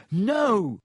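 high, urgent protest; alarmed refusal. A narrator's reading. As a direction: cry it out to stop him. Harry refuses the arm fixing.

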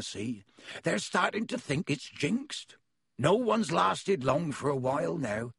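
a friendly giant welcoming guests in; half-giant host greeting visitors at the door; Hagrid voice. Acted. Hagrid explaining.

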